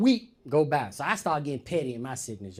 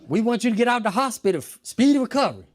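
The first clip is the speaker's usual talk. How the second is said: fast, loud mock pleading; hammed-up eager praying; overeager well-wishers; 6 semitones higher, 7 dB louder, faster than usual. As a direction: rush the wishes too eagerly. People praying too hard.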